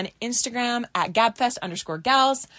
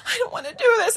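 put-on whiny teen; 11 semitones higher, faster than usual. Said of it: "And I was like".

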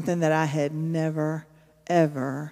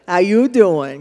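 louder flirty pickup line; a hammed-up flirty come-on; Joey Tribbiani voice; 6 dB louder, slower than usual. Shown as a demonstration. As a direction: lay on the smooth charm like Joey. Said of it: "You gotta do the".

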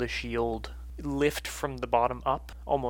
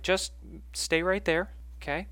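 raised, careful woman's voice; Martine; 5 semitones higher than usual. Acted. Martine sets Essie against a tree, higher instructing voice. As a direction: gently place someone and keep them there. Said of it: "She's like".

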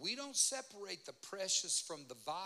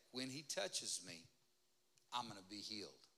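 soft faith confession; 7 semitones lower, 5 dB quieter than usual. Shown as a demonstration. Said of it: "all I'm asking you to do is say".

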